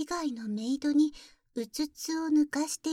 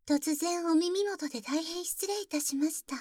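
whispered close into the ear; whispering. Acted. (耳元でのささやき)

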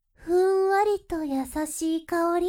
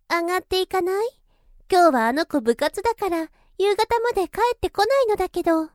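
quick, louder inviting voice; inviting older woman; 3 semitones higher, 5 dB louder, faster than usual. Acted. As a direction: tempt them inside, speeding up at the end. Invites you inside, empty house.

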